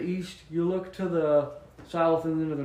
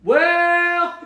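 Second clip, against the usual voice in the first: caught off guard; 13 semitones higher, 11 dB louder than usual. Real, not acted. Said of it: "that's a little bit harder to explain".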